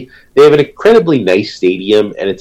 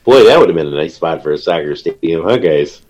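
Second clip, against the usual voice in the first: congested, blocked nose; stuffed-up nose; 4 semitones lower than usual. Real, not acted. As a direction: speak through a head cold. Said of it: "have you gotten a cold".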